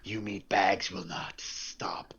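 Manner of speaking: low, breathy villain purr; sultry voice. Acted. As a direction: whisper it like a seductive villain. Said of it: "She says in a sultry voice".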